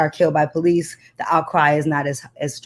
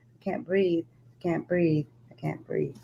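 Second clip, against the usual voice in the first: fading to a breath; 9 dB quieter, slower than usual. Acted. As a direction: let the words run out of air. Refrain fading to nothing.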